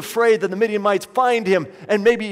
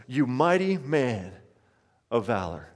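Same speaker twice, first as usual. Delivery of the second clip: savoring the words; 6 semitones lower, 5 dB quieter than usual. Shown as a demonstration. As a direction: let the title sink in tenderly. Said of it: "and I love this".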